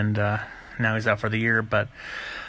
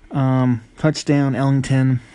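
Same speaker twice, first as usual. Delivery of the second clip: excited call; 2 semitones higher, 6 dB louder, slower than usual. Real, not acted. Calling out a touchdown.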